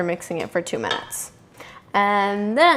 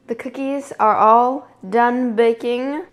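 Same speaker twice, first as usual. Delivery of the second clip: normal talking voice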